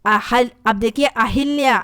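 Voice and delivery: ordinary talk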